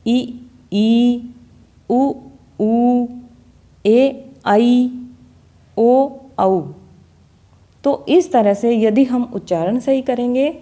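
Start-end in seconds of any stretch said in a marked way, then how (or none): 0.1-6.6 short then long vowel pairs, each said apart; vowel pairs demo. Shown as a demonstration. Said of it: "मात्राएं किस प्रकार बोली जाती है". (मात्राओं के जोड़े अलग अलग बोलकर)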